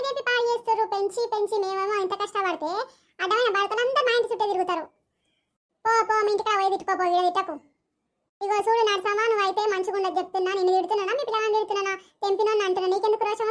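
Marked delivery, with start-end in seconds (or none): 5.8-7.5 quarrelling woman chasing her off; angry dismissal. Acted. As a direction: shoo the neighbour off in anger. Neighbours quarrelling.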